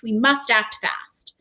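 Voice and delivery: urgent hush. Acted. Queen urging urgency.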